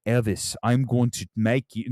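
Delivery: botched accent attempt drifting from British; imitating Tom Hanks. Streamer retrying Hanks's Elvis line, failed accent imitation. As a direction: try the mock Hanks accent, and miss. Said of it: "no, that's not British".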